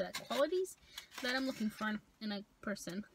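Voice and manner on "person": chewing while humming; muffled behind covering hand; mouth full of burger. Real, not acted.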